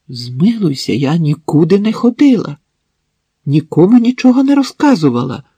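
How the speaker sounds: pleading. Acted. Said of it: "видихнула Марина".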